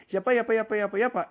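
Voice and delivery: high, loud mock yapping; hammed-up gossip babble; mocking chatter. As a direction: imitate girls chattering away. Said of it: "all the girls used to go like".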